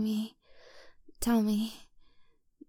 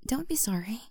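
whisper; 2 semitones higher than usual. Acted. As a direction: whisper it gently, like comforting a partner. Whispered comfort.

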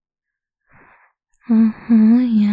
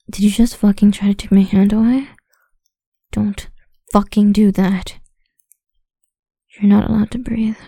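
angry; 5 dB louder than usual. Acted. Scolding partner for pulling away.

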